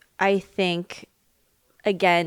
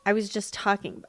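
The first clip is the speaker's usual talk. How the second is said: choking a little on the words. Real, not acted. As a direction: voice catching in the throat. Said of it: "I don't know why I'm choking today".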